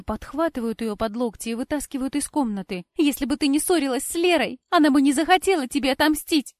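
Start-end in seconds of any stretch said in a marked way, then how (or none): 3.0-6.5 loud, higher desperate shouting; screamed hatred. A narrator's reading. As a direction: yell it as you are dragged out. Cora dragged away, screaming.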